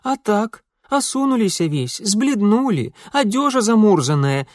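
put-on high, chattering Ukrainian-accented maid.

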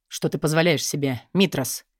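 low, stern rebuke. Acted. Konstantin sternly questioning his twin, low rebuke. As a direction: scold him coldly. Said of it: "сурово спросил его двойник".

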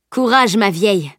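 strong voice. Acted. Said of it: "lança-t-il d'une voix forte".

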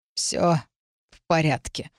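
halting low voice of the wounded; weak, pained. A narrator's reading. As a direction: reassure her with little strength. Wounded man reassuring, in pain. (слабо, с паузой от боли)

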